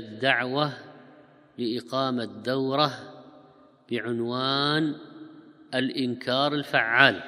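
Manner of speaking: slow, measured reading-out of a title; announcement dictation. Shown as a demonstration. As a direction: spell out the notice phrase by phrase, drawn out. Dictating wording of a posted announcement.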